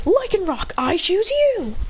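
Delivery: high, drawn-out send-out call; battle command. Acted. Trainer choosing Lycanroc for battle, high drawn-out call. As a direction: announce your fighter like an anime trainer.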